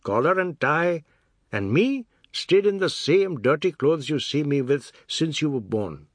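high, singsong, emphatic grievance; aggrieved Seth, haranguing. A narrator's reading. Seth complaining to the children about their father, aggrieved. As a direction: air your grievance with swooping emphasis.

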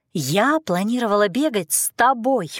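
stubborn. Acted. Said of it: "уперлась я".

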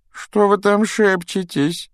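put-on high wispy ghost girl. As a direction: play the moping ghost girl. Myrtle suspicious.

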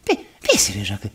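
put-on low, gruff old paisano greeting; mock country pal; paisa buddy voice. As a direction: drop low like a rough village friend. Paisa friend greets in character.

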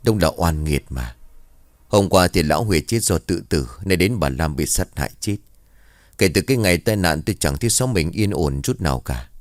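mildly weary, resigned storytelling voice; sighing lament. Acted. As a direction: lament the village's misfortune with a touch of a sigh. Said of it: "rồi thở dài". (than thở nhẹ, hơi não nề)

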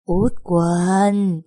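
a lightly drawn-out mock ghost call; young master imitating the ghost to tease the girl, mock eerie. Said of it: "Cậu nhái giọng ma quỷ".

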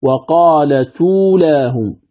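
"وقالت أولاهم" linked as wa-qaala-tuulaahum; measured model of "وقالت أولاهم", words joined; demonstrated pronunciation. Shown as a demonstration. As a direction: carry t into a long uu without hamza. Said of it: "ولفظها".

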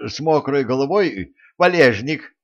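громко и выше; выкрикнуть с надеждой; крик. A narrator's reading. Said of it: "крикнул Любовод". (Любовод кричит ответ монстру)

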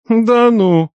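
high, ironic and drawn out; mocking disbelief; ironic drawl. A narrator's reading. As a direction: stretch it out with irony. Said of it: "иронично протянул я".

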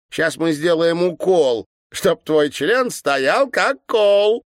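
put-on high, slow, teasing girlish chant; sly girls' rhyme. A narrator's reading. Twin girls threatening the governor, high slow teasing chant. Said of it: "лукаво переглянулись и произнесли".

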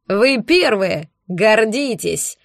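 very slow, odd bandit voice; bandit exclaims. A narrator's reading. Arch tells the bandits they're the first, very slow. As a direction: drawl it out proudly. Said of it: "воскликнул мужик".

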